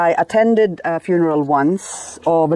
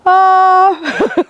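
high, drawn-out reluctant "it's all right"; hesitant fake approval; 3 dB louder, much slower than usual. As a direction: squeak out a forced reassurance. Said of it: "And I say".

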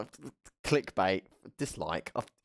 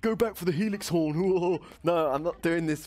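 excited; 7 semitones higher, 5 dB louder than usual. Real, not acted. Frantic gameplay reaction.

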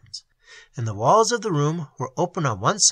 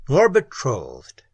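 slow, louder, falling answer; slow firm denial; 5 dB louder, slower than usual. A narrator's reading. To the maiden, echoing her words as a slow firm reply. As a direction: settle it slowly and firmly.

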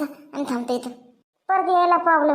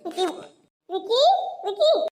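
rising call, pitched much higher each time; 6 semitones higher than usual. Acted. Uncle impatiently calling out for Viki to bring the boat. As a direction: shout across the village for Viki.

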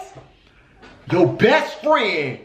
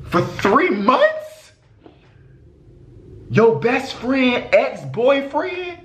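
slow disbelief; 5 semitones higher, much slower than usual. Real, not acted. Slow shocked reading.

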